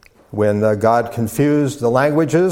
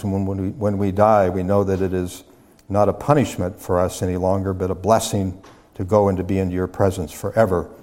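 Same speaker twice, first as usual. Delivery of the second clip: subdued, reverent prayer voice; 2 semitones lower than usual. Real, not acted. Leads a prayer.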